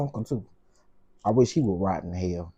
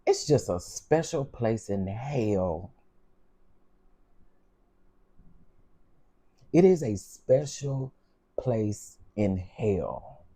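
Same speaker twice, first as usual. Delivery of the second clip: real slow anger; much slower than usual. Real, not acted. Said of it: "I'm getting so angry".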